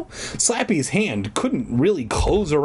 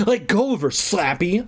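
higher-pitched demand; 5 semitones higher than usual. Acted. Puppeteer to the dummy gripping a child, demanding. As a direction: order it with raised pitch. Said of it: "I demanded".

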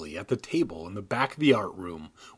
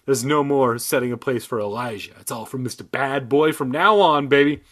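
hyped announcement; 5 dB louder than usual. Pretend. Joking religious riff.

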